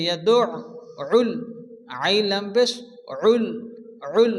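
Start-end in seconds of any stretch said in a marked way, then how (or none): 0.1-1.3 ইয়াদউল slowly with doubled ain; slow tajweed demo. Shown as a demonstration. Teacher modelling ইয়াদউল slowly. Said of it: "আইন উচ্চারণ করতে হবে".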